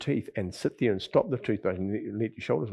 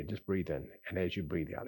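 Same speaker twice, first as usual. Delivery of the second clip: guided breathing cue; 4 dB quieter than usual. Shown as a demonstration. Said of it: "you can do this anytime".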